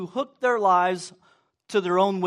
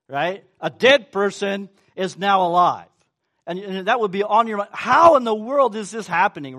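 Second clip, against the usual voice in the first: building excitement; 6 dB louder than usual. Acted.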